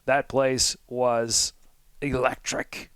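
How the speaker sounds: drawn-out announcer-style emphasis, not shouted; slow right down with a pause before the big word; play-by-play announcer. Real, not acted. Fan telling co-host about the stadium atmosphere, slow announcer delivery. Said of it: "You sound like the play-by-play announcer".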